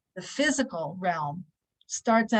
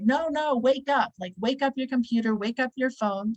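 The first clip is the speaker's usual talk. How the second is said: higher-pitched, playful wake-up call; lightly acted protest, pitched up; mock urgent plea; 3 semitones higher than usual. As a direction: urge a sleeping gadget awake, half in jest. Mock pleading with a sleeping computer.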